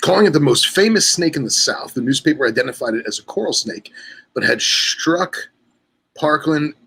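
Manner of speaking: measured article-reading voice; reading aloud. Real, not acted. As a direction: read it out like a regional history column.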